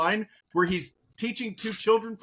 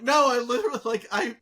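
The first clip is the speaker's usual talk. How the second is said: higher-pitched mock self-defence; retold defensive protest; 5 semitones higher than usual. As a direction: plead your case in playful indignation, pitched up. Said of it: "I'm like".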